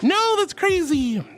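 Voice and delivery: high, slow drawn-out no; mock disbelief. Real, not acted. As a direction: stretch out the disbelief. Reacting to joke.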